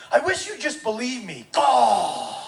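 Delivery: lightly mimicked teen protest ending in a groan; exasperated teenager. Teenager protesting to his dad, mock exasperation. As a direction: imitate an exasperated kid, groan at the end. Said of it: "what every teenager says at least once".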